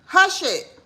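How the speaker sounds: loud, high snap to hush someone; a quick loud shush at the interrupter; sharp hush. Real, not acted. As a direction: cut them off sharply. Snapping at someone off-camera.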